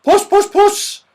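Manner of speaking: high, loud, drawn-out calls; calling a cat. Acted. Saucepan man still hunting the cat, calling out high. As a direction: call the cat slowly and shrilly high. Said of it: "he called".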